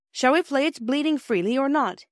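high-pitched, cheerful question; chirpy boy at play. A narrator's reading. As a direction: ask it brightly, like suggesting a game. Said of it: "he asked cheerfully".

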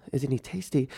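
softly puzzled, acted-out reaction; baffled echo. His baffled repeat of her question.

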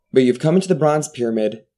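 dramatic game master narration; scene narration. Acted. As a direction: set the scene with menace.

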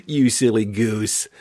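slow, teasing, lightly amused; playful dismissal. Shown as a demonstration. Answering a parent's insult with a slow playful tease. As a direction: tease the insult away gently. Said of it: "laugh in response to a derogatory response".

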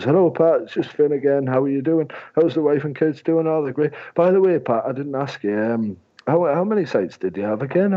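high, chatty phone-call voice; gentle, friendly rapport. Acted. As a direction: slip the question into friendly small talk. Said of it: "really gentle".

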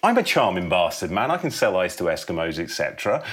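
high, eager rush of a sudden idea; excited epiphany. Acted. Elliot in the cinema, excitedly pitching to himself. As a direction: pump yourself up, the idea is landing.

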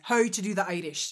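second-go attempt at an Irish accent; amateur Irish accent. Shown as a demonstration. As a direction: try the phrase in an Irish accent. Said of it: "well, that's really good".

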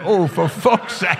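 slow, high mock groan; imitating teammates' groan; lads groaning. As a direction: groan like the whole team.

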